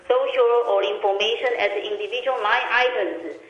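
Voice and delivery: speakerphone sound; talking over a speakerphone. Real, not acted. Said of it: "it sounds like you're on a speakerphone".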